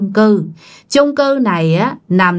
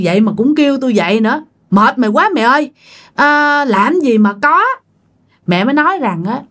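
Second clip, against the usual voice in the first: exasperated mother; 2 semitones higher, faster than usual. Retold or imitated.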